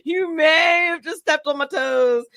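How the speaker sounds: words breaking into laughter mid-sentence; laughing while talking. Real, not acted. Teasing host about stepped-on toes, laughing. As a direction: giggle through the end of the line.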